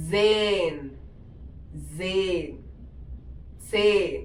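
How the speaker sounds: "സെയിൻ" as German zehn, long ay vowel; "സെയിൻ" said zayn, repeated for learners; German pronunciation demo. Shown as a demonstration. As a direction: drill "സെയിൻ" as one drawn falling syllable. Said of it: "ten നമ്മൾ പറയാ".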